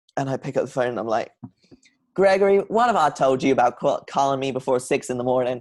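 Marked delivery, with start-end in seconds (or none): 2.1-5.6 imitated Southern accent. Retelling answering an early-morning phone call from a caller: put-on accent. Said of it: "because I use the accent full time now".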